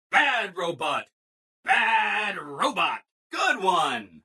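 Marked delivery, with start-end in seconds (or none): 0.1-1.0 self-scolding. Acted. Robot scolds itself, first take. 1.6-3.0 slow, stretched-out mock telling-off; drawn-out self-scolding. Robot telling itself off for being bad, drawn-out scolding.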